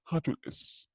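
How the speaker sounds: secretive whisper. Pretend. Teacher voicing greedy doesn't taking the s, whispered. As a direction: hiss it like a sly little thief.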